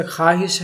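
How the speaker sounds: خواہش said as khaahish, with no w; silent wao. Shown as a demonstration. Teacher giving an example of wao madoola, silent wao. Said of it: "لیکن واو ادائیگی نہیں کیا".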